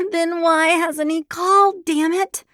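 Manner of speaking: high, loud frustrated holler; loud frustrated outburst. A narrator's reading. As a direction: yell it before thinking. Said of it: "I hollered".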